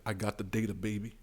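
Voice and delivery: low swagger Yang. Retold or imitated. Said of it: "he has the data".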